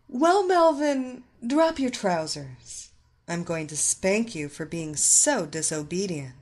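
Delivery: loud, stern mistress order; commanding mistress. Acted. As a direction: bark the order down at him. Mistress commands her captive.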